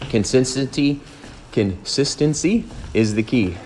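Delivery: breathless from climbing stairs; out of breath. Real, not acted. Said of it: "trying to say consistency while going up those monster stairs".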